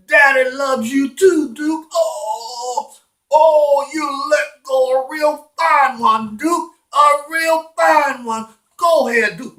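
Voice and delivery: high, drawn-out gushing praise; doting dog owner. Acted. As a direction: gush over the dog's achievement. Man praising dog, voiced.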